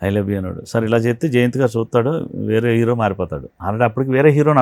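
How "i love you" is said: soft, lower shy "I love you"; timid confession. Retold or imitated. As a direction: whisper the line like a shy beginner. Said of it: "బెరుగ్గు బెరుగ్గా వచ్చాడు". (సిగ్గుగా మెల్లగా చెప్పడం)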